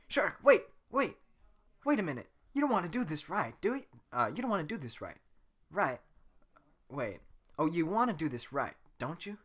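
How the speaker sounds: high, loud, urgent pleading; pleading Donkey voice. Acted. Donkey begging Shrek to wait, high and pleading.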